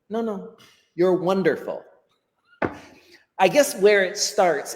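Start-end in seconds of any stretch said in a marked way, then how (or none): 0.1-1.8 reassurance. Acted. Reassuring the imagined worried learner.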